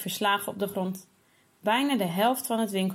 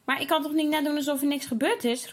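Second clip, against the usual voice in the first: exclaiming; 6 semitones higher than usual. Acted. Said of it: "roept Julian uit".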